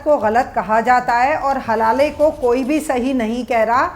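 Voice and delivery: calm, deliberate. Real, not acted. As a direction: make the point slowly without shouting. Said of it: "मैं आराम से बात करती हूँ".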